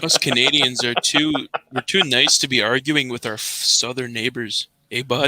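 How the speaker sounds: thick Canadian accent, slowing at the end; strong Canadian accent. Real, not acted. Canadian smoothing things over with southern neighbours, strong Canadian accent. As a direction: lean into a polite Canadian accent. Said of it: "Such a strong accent".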